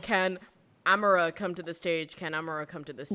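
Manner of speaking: "Amara" with a wrong middle vowel, no "ee" as in Amira; mispronounced name. Retold or imitated. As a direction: botch the name as "Amara", losing the ee. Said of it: "That's how badly this head of grade pronounced my name".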